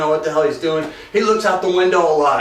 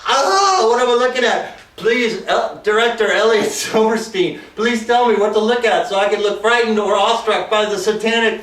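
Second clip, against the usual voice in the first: mock bewildered actor; 3 semitones higher than usual. Actors asking the director what to look at, mock confusion. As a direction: ham up an actor who can't see the effect. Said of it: "everybody's like".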